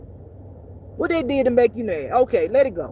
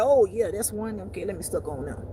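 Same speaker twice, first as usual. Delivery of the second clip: devil voice; 3 dB quieter than usual. Retold or imitated. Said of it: "And the devil like".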